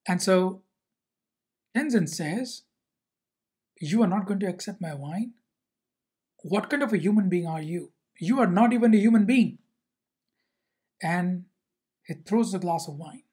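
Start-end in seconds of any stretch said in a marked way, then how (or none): 3.8-9.6 starts even, rising to a loud angry cry; mock indignation swelling louder; retold host working up to a loud angry outburst; building angry retort. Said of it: "Tenzen gets angry or demonstrates anger".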